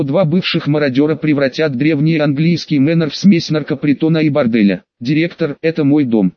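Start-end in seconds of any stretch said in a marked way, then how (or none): 5.0-6.3 put-on drunken, hiccuping slur; a drunk man talking through hiccups. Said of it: "пьяно икнул Сириус". (пьяно, с иканием)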